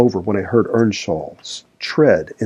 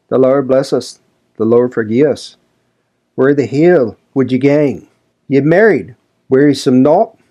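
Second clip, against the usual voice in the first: louder, higher Yorkshire servant scolding; pious, grumbling old Joseph; 5 semitones higher, 4 dB louder than usual. A narrator's reading. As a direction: scold her like a self-righteous old manservant. Joseph voiced in reading.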